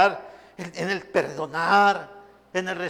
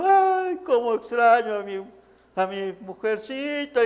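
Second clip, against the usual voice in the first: mock weeping widower; 3 semitones higher than usual. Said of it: "ya está llorando el abuelito".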